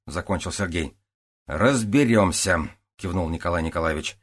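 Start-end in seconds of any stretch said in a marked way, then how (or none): 1.5-2.7 slow, drawn out. Acted. Captain closing the topic.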